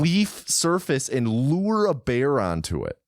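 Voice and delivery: disbelieving recap; incredulous tone. Real, not acted. Co-host recaps luring a bear into a pit, incredulously. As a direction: finish the plan as if it's absurd. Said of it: "with that tone of voice, it sounds ridiculous".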